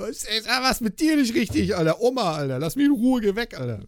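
high, scolding granny voice; hammed-up mock granny; angry old woman. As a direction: play the old woman shooing him off. Old woman's insults acted out.

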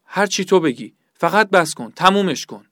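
pleading, pitch lifted; broken-down plea to a torturer; desperate surrender. Acted. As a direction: give in and beg for it to end. Tortured man gives in, begging.

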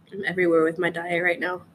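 talking while crunching chips. Real, not acted. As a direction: speak through a mouthful of chips. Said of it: "I'm crunching my speak".

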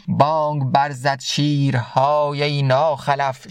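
slow, measured reading of Rumi's verse; slow verse recitation. Acted. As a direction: recite the couplet slowly, letting each word land. Recites Masnavi verse slowly. (شعرخوانی آرام و شمرده)

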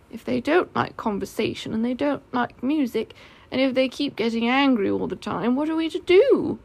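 lightly voiced puzzled bear; bothered Pooh. Pooh asking what to do about angry bees, bothered. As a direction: list the problems, then rise into a plaintive question.

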